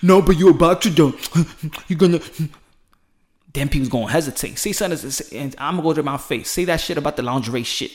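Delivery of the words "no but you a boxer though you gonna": mock nervous backing off. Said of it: "people gonna be like".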